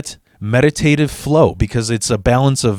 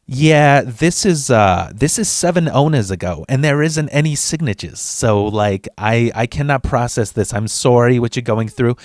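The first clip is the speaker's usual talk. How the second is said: put-on clerk's Italian-American accent; put-on Italian-American accent of a DMV lady; Italian-American lady's accent. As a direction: imitate an older Italian-American woman's accent. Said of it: "in her, in her fucking act".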